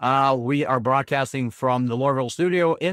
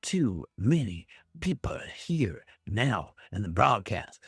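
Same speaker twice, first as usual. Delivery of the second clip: whisper; 5 semitones lower, 5 dB quieter, slower than usual. Real, not acted. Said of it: "I should just leave".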